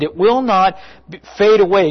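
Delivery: normal talking voice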